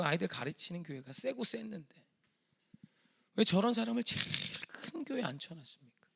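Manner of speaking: aggrieved retold prayer; retold tearful protest. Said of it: "새벽마다 울었어요".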